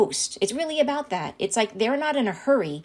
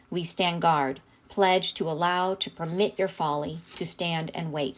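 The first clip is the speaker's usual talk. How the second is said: solemn reading. Acted. Reads channeled message aloud.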